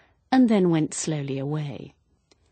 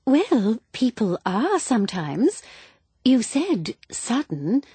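higher, gushing, flustered wife; flustered woman; 4 semitones higher, 4 dB louder than usual. Acted. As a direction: chatter on like a silly widow. Flustered widow voiced by narrator.

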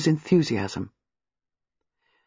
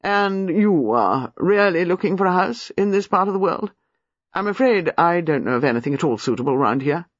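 authoritative lady; 2 semitones higher than usual. Acted. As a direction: speak with unquestioned authority like the lady of the house. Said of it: "saying in her deep, authoritative voice".

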